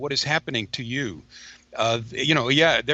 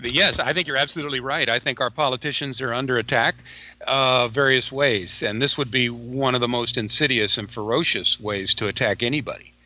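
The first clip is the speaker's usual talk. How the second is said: breaking up like a bad phone line; corrupted glitchy audio. Real, not acted. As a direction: audio dropping in and out. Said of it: "It is breaking up as, um, uh, sporadically".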